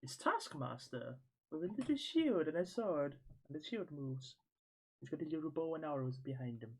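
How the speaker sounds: lightly put-on Irish accent; accidental Irish accent. Real, not acted. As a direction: slip into an Irish lilt. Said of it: "I don't know why I'm in Irish accent".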